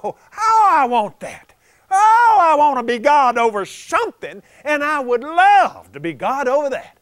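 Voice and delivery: loud, high, yearning cries of want; covetous longing. Retold or imitated. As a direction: ache with envy as you gaze. Lucifer covets the new creation.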